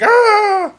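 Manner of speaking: very high, loud scream of someone on fire; acted scream. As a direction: shriek as the flames catch. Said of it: "She starts screaming".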